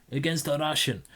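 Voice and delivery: a half-hearted put-on Norwegian accent; lightly faked Norwegian lilt; mock Norwegian accent. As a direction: slip into a playful fake Norwegian accent. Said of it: "Why am I talking like this?".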